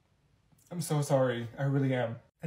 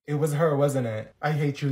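usual speaking voice

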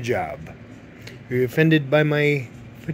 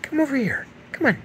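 high-pitched coaxing; 9 semitones higher, faster than usual. Real, not acted. Coaxing cat closer.

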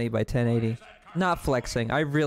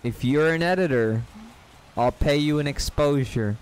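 a louder, punched sales pitch; louder offer. Shown as a demonstration. Offering editors exposure, a louder pitch. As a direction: announce the offer loudly. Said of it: "That's right".

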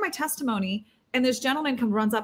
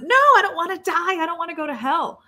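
raised, desperate plea, higher and louder; crying out; 7 semitones higher, 4 dB louder than usual. Retold or imitated. A man's spirit crying out not to die, desperate loud plea. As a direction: cry out as if begging for your life. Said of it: "his spirit cried out".

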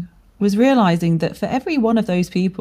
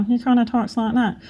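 higher-pitched silly character voice; 6 semitones higher than usual. Acted. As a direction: put on a silly voice for a mocked inner critic. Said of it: "I give him a silly voice".

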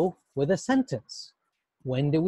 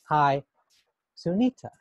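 "Hi" then a gap before "Sunita"; pause after hi. Shown as a demonstration. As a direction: hold a pause between "Hi" and "Sunita". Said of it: "There's a space there".

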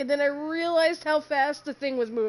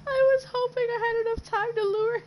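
laughing through words; 6 semitones higher than usual. Real, not acted. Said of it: "I'm crying, man".

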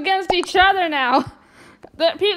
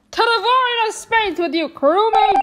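villain taunt; 4 semitones higher, 5 dB louder than usual. Acted. Ejecting crewmate, villain taunt.

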